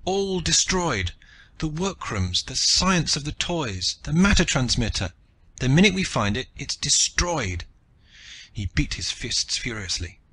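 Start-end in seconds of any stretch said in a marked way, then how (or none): 0.0-7.6 raging. A narrator's reading. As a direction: spit out the loss in rage. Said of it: "Rakhal raged".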